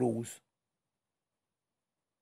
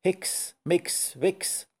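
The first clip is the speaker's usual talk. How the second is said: pondering witch; 5 semitones higher, much slower than usual. Acted. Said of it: "grübelte die Hexe".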